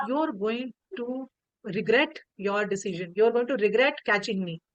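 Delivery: lightly voiced warning, spaced out word by word; retold warning. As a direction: give a mild, deliberate warning. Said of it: "you are giving me warning".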